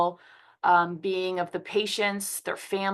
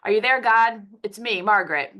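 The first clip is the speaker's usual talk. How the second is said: put-on reading as young Margaret; 3 semitones higher, 5 dB louder than usual. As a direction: read it like a worried young girl talking to God, lightly. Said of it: "I'm just gonna read you this quote".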